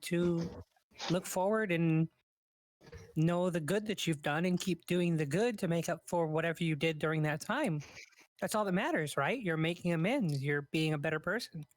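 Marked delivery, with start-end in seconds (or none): 3.2-11.7 talking while chewing sushi; words round a mouthful of food; mouth full. Real, not acted. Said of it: "As I'm shoveling sushi into my face".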